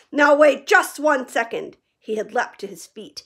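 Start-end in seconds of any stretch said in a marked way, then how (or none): 0.1-1.8 loud, slow, deliberate threat; slow angry warning. A narrator's reading. Hagrid rising furious over the Dursleys. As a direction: hold them with each word.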